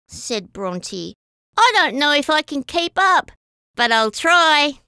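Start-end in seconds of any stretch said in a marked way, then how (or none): 1.6-4.8 worried. Acted. Bronte worries she can't keep up.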